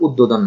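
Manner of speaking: উদ্বোধন said wrongly as "uddodhon"; the faulty "ud-dodhon" for উদ্বোধন; mispronunciation being rejected. Shown as a demonstration. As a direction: say উদ্বোধন with no b, only a doubled d. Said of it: "আসলে এখানে উদ্বোধন না".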